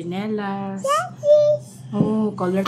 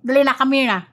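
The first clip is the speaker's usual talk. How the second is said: urgent coaxing; 6 semitones higher, 5 dB louder than usual. Real, not acted. Coaxing her crying, shouting child. (malakas na pang-aamo sa umiiyak na anak)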